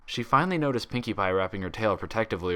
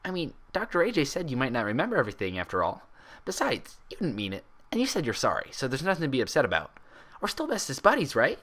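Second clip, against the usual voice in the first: cheerful Pinkie; 5 semitones higher than usual. Acted.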